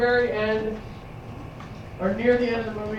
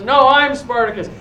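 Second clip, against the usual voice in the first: loud defiant claim; loud declaration; 3 semitones higher, 6 dB louder than usual. Retold or imitated. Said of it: "stands up and says".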